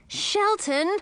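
urgent cry to get his attention. A narrator's reading. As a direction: snap the name urgently. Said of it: "I cried".

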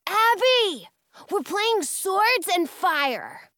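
high, loud, eager call; excited boy. A narrator's reading. Jonah runs up to explain the game, excited. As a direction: shout it with excited pride.

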